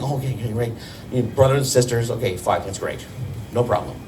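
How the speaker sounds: low mumbling dad. Retold or imitated. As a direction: shrug it off like dad. Dad's low mumbled reply.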